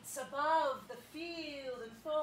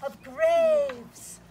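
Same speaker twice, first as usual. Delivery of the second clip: loud, grand stage speech; hammy Shakespeare declamation; 3 semitones higher, 11 dB louder, slower than usual. Acted. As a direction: declaim like a tragic actor.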